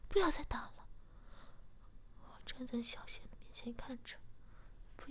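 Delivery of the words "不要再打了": louder, higher, sulky retort; a bit angry. Acted. Captive answers her captor with a louder, sulky protest. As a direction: snap back in annoyance, a touch raised. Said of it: "小贤有点生气地说".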